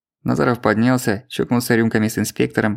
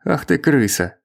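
higher, furious outburst; angry; 5 semitones higher, slower than usual. A narrator's reading. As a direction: spit out the insult. Enraged at the inspector.

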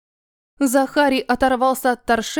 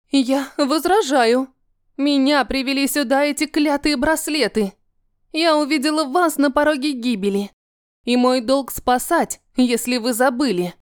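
indignant; 2 semitones higher than usual. Acted. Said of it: "праведное возмущение".

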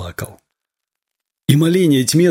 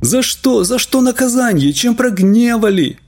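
despairing plea; 10 semitones higher than usual. A narrator's reading. Desperate father laments.

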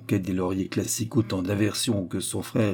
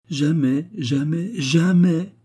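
rising higher each time, jamais building louder; insistent; 8 semitones higher, 4 dB louder, much slower than usual. A narrator's reading. Anna insisting she will never burden Suzy, building jamais. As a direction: swear it, growing with each jamais.

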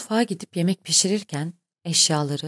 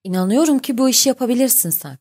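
higher, eager vote of confidence; happy, raised-pitch encouragement; joyful exclamation; 6 semitones higher, 4 dB louder than usual. A narrator's reading. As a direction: say it with delighted conviction. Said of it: "diye sevinçle bağırdı".

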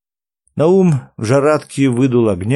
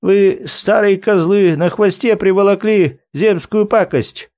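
put-on higher-pitched grumpy old man; grumbling; 7 semitones higher than usual. A narrator's reading. Naum scolds the old men over trouble brought along, grumbling. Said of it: "проворчал Наум".

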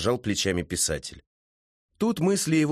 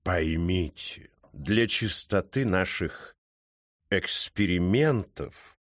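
slow, low cat voice, экспериментов set apart and drawn out; deliberate drawl, weighting экспериментов; stress on экспериментов; 3 semitones lower, much slower than usual. A narrator's reading. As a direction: lean on экспериментов after a pause. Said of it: "последнее слово кот подчеркнул голосом".

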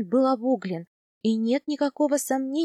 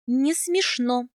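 angry; much slower than usual. Acted. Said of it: "сердито выпрямилась я".

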